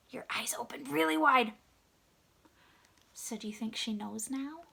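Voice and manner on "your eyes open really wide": surprised. Acted. Acting out wide-eyed surprise.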